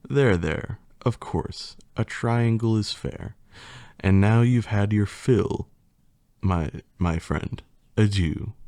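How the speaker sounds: lightly theatrical poem reading; reading a silly poem to the audience with mock drama; hammed-up storybook recital; story narration. Reads rhyming story aloud.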